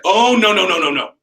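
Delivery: protesting dad. Retold or imitated. Dad interrupting mom's rope demo, protesting. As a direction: cut in like a dad taking over. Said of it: "My dad's like".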